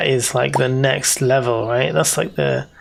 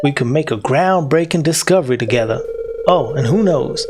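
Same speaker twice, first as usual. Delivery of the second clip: bad Confederate soldier accent. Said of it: "Confederate soldier".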